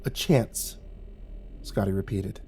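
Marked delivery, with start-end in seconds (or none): 0.0-0.8 soft, flat echo; unimpressed. Acted. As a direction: repeat it without believing it. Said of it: "He didn't sound particularly impressed".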